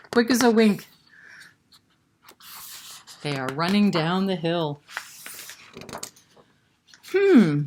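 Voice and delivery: put-on storyteller voice for kids; story narration. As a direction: tell it like a read-aloud.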